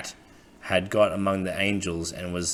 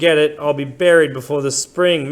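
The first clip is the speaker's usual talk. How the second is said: put-on old man's voice; 7 semitones higher, 7 dB louder than usual. Old man voiced in story.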